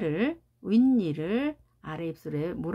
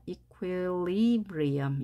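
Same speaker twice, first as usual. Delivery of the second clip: equilibrium with LIB stretched and prominent; stress on LIB; much slower than usual. Shown as a demonstration. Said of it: "여기에 강세가 있는 거죠".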